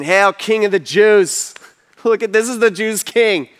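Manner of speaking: jeering mock homage. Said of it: "They all start mocking him, saying".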